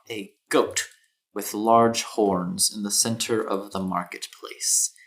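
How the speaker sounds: deliberate, measured storyteller delivery; scene-setting narration. A narrator's reading. Game master describing a dwarven man atop a goat, measured narration. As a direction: paint the scene phrase by phrase, with pauses.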